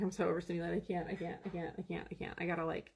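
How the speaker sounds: soft, spent repetition; overwhelmed murmur. Retold or imitated. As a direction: trail off, drained and overstimulated. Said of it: "And I was like".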